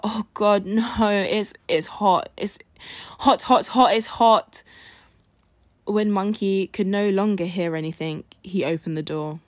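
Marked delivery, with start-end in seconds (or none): 0.0-4.6 crying out. Acted. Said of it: "The rabbit started to cry out".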